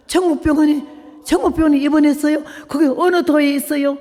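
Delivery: high, incredulous echoing question; astonished nun. Retold or imitated. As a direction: imitate a nun who can't believe the answer. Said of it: "수녀가 와서는 놀래가지고". (어리둥절해 높은 소리로 되묻는 수녀)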